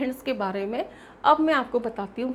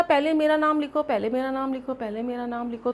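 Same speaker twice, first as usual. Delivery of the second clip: lightly acted quarrel for first place; mock squabbling; 2 semitones higher than usual. Ligands fighting over whose name comes first, mock squabbling. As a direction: repeat it like rivals pestering, fading as it goes. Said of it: "आपस में झगड़ा हो जाएगा".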